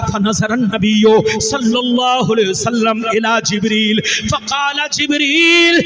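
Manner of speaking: impassioned preaching to a crowd; full-force devotional preaching; fiery sermon. Acted. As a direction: preach it out, rising and falling with fervour. Stage sermon with Arabic recitation.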